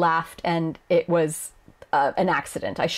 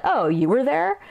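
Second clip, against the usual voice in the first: mock-surprised oh, higher pitch; dismissive burn; 7 semitones higher than usual. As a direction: feign having only just noticed them. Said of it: "basically just reinforcing that".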